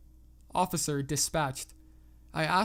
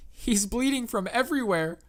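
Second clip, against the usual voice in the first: higher, mildly tearful cry; acted distraught girl; 7 semitones higher, 4 dB louder than usual. A narrator's reading. Girl reports her run-over dog to the operator, acted distress. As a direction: plead as an upset child, lightly acted. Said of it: "She was full on sobbing".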